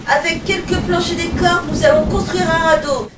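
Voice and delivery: high, loud call; rally them to build a raft; captain shouting his plan to the crew; shouted plan. Acted. Captain commanding in the shipwreck.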